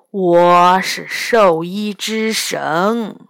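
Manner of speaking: slow, drawn-out boast; proud. Acted. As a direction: savour every word of the claim. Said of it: "老人骄傲地说". (骄傲地慢慢说)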